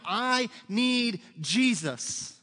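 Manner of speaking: drawn-out, emphatic mock cry; stretched-out plea, loudly imitated; retold crying out. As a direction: call it out slowly like a desperate convert. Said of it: "screaming out".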